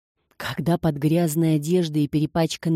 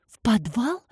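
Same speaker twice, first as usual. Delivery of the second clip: horrified question; 5 semitones higher than usual. A narrator's reading. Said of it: "с ужасом переспросила Паулина".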